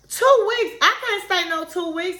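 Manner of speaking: imitated indignant burst, pitched high; mock disbelief, jumping high on "Two weeks"; outraged. Wife refusing to wait two weeks, mock outrage.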